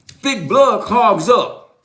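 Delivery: each word slow and deliberate; Thick blood clogs up, said slowly like a verdict; slow emphatic. Shown as a demonstration. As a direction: spell it out word by word. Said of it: "Go talk to somebody in medical".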